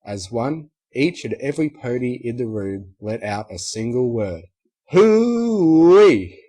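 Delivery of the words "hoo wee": whoop. Acted. Crowd cheers together.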